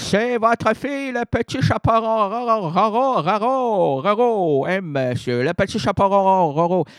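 wolf putting on a little girl's voice, hammed up; hammy wolf faking a girl's voice; wolf disguising voice. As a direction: fake the granddaughter badly. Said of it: "dit le loup, en contrefaisant sa voix".

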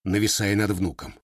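ordinary delivery, nothing marked

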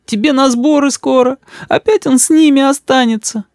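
мама сквозь слёзы, высоко; плачущая мама жалуется, медленно; всхлипывая. A narrator's reading. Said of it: "всхлипывала мама". (всхлипывая, высоким голосом)

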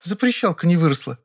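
high, hurt, defiant; offended retort. A narrator's reading. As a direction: pout it at him. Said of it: "обиженно заявила".

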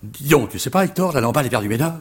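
a lightly voiced young dandy spreading gossip; mock dandy gossip. Retelling the dandies behind him at the show, brisk mock gossip. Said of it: "L'un d'eux dit à l'autre".

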